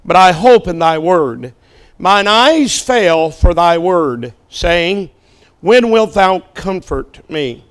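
measured, solemn reading, partly slow; scripture reading. Acted. Preacher reading the psalm aloud to a standing church, solemn. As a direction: read the King James words with weight.

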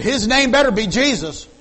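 high, loud sassy comeback; wife's retort. Retold or imitated. Wife warning her fiancé, high and loud. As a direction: snap it back hands on hips. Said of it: "she said".

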